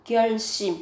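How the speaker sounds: 결심 with the s sound doubled, 결씸; careful pronunciation. Shown as a demonstration. Teacher models 결심 for Vietnamese learners, doubled s. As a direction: press a doubled s into 결심. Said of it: "cần chú ý về cách phát âm, gấp đôi phụ âm sờ lên".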